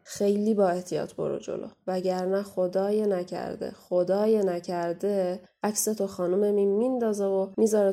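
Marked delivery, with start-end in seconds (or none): 1.9-3.7 drawn-out warning with خدای held long; a slow, heavy caution. Acted. Warning repeated slower. 3.7-5.4 خدای نکرده stretched out, each word slow and heavy; very slow ominous warning. Acted. Warning repeated slower.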